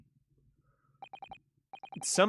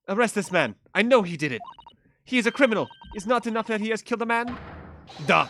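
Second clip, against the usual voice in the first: higher, insistent put-on Russian accent; Russian lady demanding; 6 semitones higher than usual. Russian passenger demanding the inspector arrest him. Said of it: "the Russian accent".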